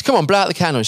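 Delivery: acted encouragement, pitch lifted; coaxing. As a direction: coax her along, impatient but friendly. Cafe guy urges Agnes on.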